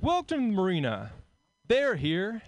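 high, bright ad announcer voice; hammed-up real-estate ad voice; brochure voice. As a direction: sell the marina like a brochure. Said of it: "It's like".

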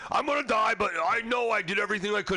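high, resigned mock skydiver; hammed-up serene doomed jumper; mock calm acceptance. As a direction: accept doom breezily. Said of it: "he's like".

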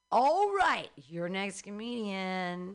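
slow, drawn-out stage introduction of the next act; comedy show announcer. Real, not acted.

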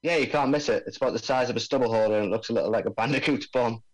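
lightly voiced Aussie bomb expert; laid-back Australian accent, mate. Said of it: "I'm supposed to be doing an Australian accent here".

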